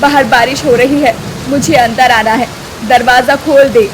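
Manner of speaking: mild calling out to the door. Acted. Mother-in-law calling her daughter-in-law to open, calling out. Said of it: "जोर जोर से आवाज लगाती है".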